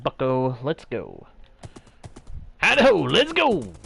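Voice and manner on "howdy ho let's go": high, loud rallying cry; calling out. Real, not acted. Player urging his horse onward, calling out. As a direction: holler it out, high and playful.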